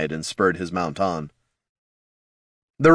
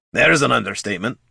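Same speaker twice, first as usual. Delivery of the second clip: grumbling dwarf; 3 semitones higher than usual. Acted. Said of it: "grumbled the dwarf".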